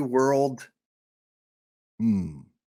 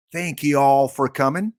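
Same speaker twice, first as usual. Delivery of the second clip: playful, louder American "y'all" greeting; mock American accent; 2 semitones higher, 6 dB louder than usual. Streamer welcoming viewers in the U S, mock American accent. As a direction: put on a folksy American accent. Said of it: "So if you're in the U S".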